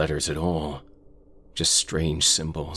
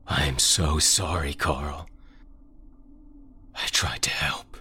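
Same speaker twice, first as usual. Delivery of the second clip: slower, broken whisper; tearful whisper. Acted. Narrator apologising to vanished Carl, broken whisper. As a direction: whisper an apology to someone gone. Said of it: "I whispered".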